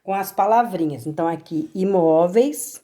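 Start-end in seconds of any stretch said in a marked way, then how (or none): 1.7-2.8 "imóveis" drawn out with the "MÓ" leaning strong; slow word demo. Shown as a demonstration. Teacher to students, reading a crossword answer slowly. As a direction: stretch "imóveis", pressing on "MÓ". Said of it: "preencherem a cruzadinha".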